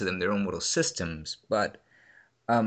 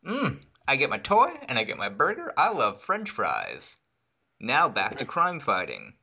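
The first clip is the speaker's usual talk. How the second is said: a hint of a sugary ad kid, higher at first; parodying a movie kid's fast food plug, mildly sweet; mock kid actor; 4 semitones higher than usual. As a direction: lightly parody a kid plugging fries. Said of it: "Like, this was".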